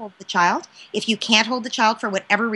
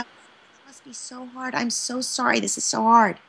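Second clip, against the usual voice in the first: compassionate soothing; 4 dB quieter than usual. Shown as a demonstration. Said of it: "stay compassionate".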